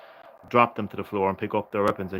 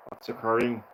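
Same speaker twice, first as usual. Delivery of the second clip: put-on terrible Welsh accent. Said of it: "Terrible Welsh accent".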